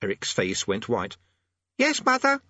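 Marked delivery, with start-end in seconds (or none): 1.8-2.4 put-on high, loud boy's answer; shouted. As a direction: call back to mother, high and loud. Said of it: "he shouted".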